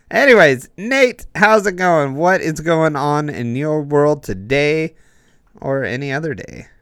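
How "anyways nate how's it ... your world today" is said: upbeat greeting. Real, not acted. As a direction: greet the guest brightly. Host greets guest.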